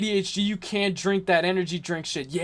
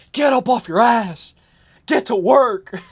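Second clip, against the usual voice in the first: mock dad yell, slow and pushy; imitating angry dad; 3 semitones higher, 5 dB louder, slower than usual. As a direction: bark it like a fed-up father. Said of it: "my dad will get pissed".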